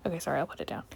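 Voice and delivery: quick soft whisper. Real, not acted. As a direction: whisper the apology aside. Apologetic aside.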